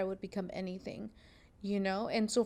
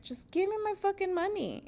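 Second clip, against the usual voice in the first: retold demand; 10 semitones higher than usual. Demanding pay from the boss.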